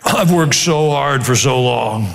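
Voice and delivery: slow, hammed-up tearful athlete; mock athlete. Preacher mocks a young athlete's interview, slow and teary. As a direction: drag it out like a self-pitying star. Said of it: "and they go".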